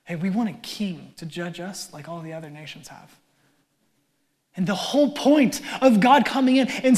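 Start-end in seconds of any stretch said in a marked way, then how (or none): 0.0-3.1 entitled demand. Shown as a demonstration. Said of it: "I want you to hear the offense in that".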